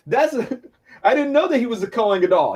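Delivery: laughing, mock-innocent "I didn't know"; Paul feigning innocence, laughing sarcastically; sarcastic. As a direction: play dumb with a smirk. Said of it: "He's being kinda sarcastic".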